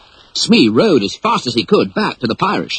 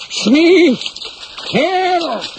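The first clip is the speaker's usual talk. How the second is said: desperate call for help. Acted. Captain calling to Smee from the crocodile, desperate. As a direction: yell out from inside trouble. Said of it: "a muffled voice calling his name".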